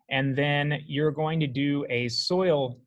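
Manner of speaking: whistled s sounds slipping out; whistling when talking. Real, not acted. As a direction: talk with a whistle on the s. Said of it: "I'm whistling when I'm talking".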